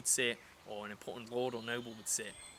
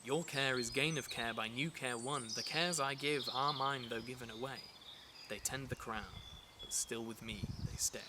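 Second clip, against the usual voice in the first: verse reading. Shown as a demonstration. Teacher reads Richard the Second's lines to students, measured recital. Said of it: "I'll just read this line for you".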